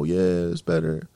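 low, throwaway imitation; offhand agreement. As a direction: imitate listeners agreeing by rote. Mimics listeners agreeing by rote.

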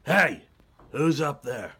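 sharp loud call up the ladder; loud startled hey. Acted. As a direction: catch them in the act. Security guard catches intruders.

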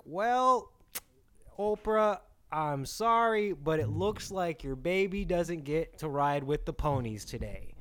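high, slow, gentle doctor breaking news; soothing doctor voice; mock doctor voice.

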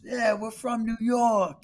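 mock New York bro. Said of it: "He goes".

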